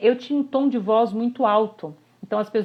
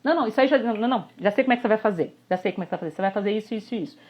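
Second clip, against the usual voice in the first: know-it-all fixer; much faster than usual. Retold or imitated. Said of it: "ouvinte focado na solução".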